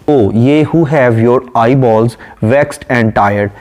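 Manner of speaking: slow, measured reading of a poem line; poem recitation. Acted. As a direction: recite it slowly and deliberately. (धीमी, ठहरी हुई कविता-पाठ की आवाज़)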